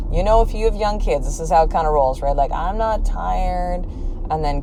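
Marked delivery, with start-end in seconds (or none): 2.5-3.8 lightly voiced child dragging the words out slowly; a slow, stretched bedtime protest; whiny child. Child refusing bedtime, lightly mimicked protest.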